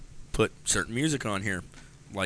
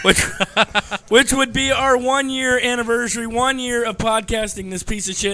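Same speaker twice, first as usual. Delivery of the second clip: hoarse, worn-out voice; raspy whisper; 11 semitones higher, 5 dB louder than usual. Real, not acted. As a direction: talk through a voice that's nearly gone. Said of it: "and I have no voice".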